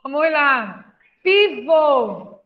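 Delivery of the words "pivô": Pivô said loud with stress on the last syllable; word called out. Shown as a demonstration. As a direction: call out Pivô, leaning on vô. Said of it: "Pivô tem acento?".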